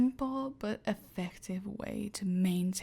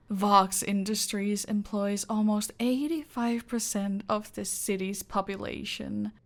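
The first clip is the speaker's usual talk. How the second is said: ordinary delivery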